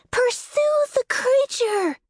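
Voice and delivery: high, loud, slow battle cry; shouted command. A narrator's reading.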